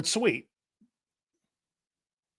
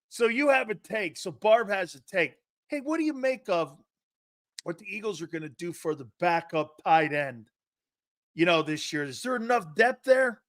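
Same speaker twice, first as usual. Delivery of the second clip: radio host on air. Retold or imitated. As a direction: mimic a host putting a question to a caller. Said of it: "He's on the air going".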